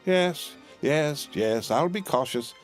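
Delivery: high, brushing-off yes yes yes; hurrying to soothe; impatient reassurance. A narrator's reading. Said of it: "said Miss Pross".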